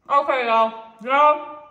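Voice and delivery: loud, thrilled exclamation; excited. Real, not acted. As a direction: burst out in delight. After tasting the dish.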